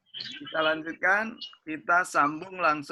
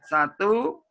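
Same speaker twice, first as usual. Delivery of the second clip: count-in; 7 semitones higher, 4 dB louder, slower than usual. Real, not acted. Counting in the group chant.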